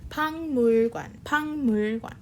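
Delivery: 박물관 said as bangmulgwan, K turning to NG before M; 박물관 with the 기역 nasalised to ng; 박물관 pronounced bang-mul-gwan; Korean pronunciation. Shown as a demonstration. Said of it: "notice the pronunciation of this word".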